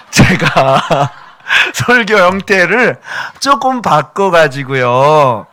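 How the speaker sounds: 아주 느리게, 따뜻하게 '알을 품듯' 말하기; 회중을 품어주듯 부드럽게 늘어뜨린 설교; gentle preaching demo. Shown as a demonstration. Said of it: "따뜻하게 알을 품듯". (무서운 설교를 바꾸겠다며, 느리고 따뜻한 설교 시범)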